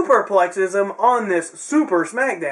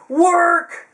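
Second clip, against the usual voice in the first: higher, drawn-out shout of one word; yelled call-out; 11 semitones higher, 4 dB louder than usual. Retold or imitated. Wrestling reviewer reacting to the announced feud, yelling out. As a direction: yell it out like an instant reaction. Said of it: "I instantly yell out".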